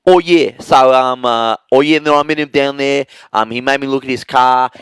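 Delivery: casual Aussie telling a story; Australian character voice. Shown as a demonstration. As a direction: another distinct Australian voice. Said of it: "you could do a poiter".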